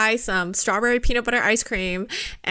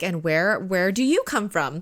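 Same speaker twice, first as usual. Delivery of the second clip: lightly imitated British accent. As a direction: put on a mild British accent. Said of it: "he says in a British accent".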